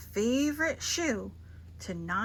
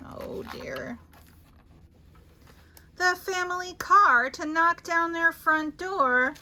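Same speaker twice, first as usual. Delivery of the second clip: building excitement; 6 semitones higher, 6 dB louder than usual. A narrator's reading. Cumulative list builds.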